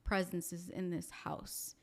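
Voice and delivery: slow, grave medium's pronouncement. Retold or imitated. Medium slowly telling the family what she senses. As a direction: lay each word down slowly and gravely. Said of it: "she's like".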